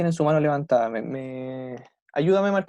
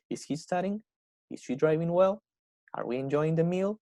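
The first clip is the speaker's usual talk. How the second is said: "Is he studying?", "Is she driving well?", "Are we enjoying the meal?", each ending on a rise; rising question intonation; 2 semitones higher than usual. Shown as a demonstration. Teacher modelling how English speakers ask, rising intonation. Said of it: "mi entonación va a ir hacia arriba".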